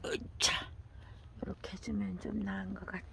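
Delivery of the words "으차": short heave-ho grunt; effort grunt. Real, not acted. Gardener heaving something into place, short effort grunt. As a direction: let out a quick grunt as you lift.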